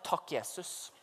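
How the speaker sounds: imitert lav, matt takkebønn; si det lavt og utmattet, som etter oppkast; matt takk. Retold or imitated. Weak thanks after throwing up. (matt og lavmælt)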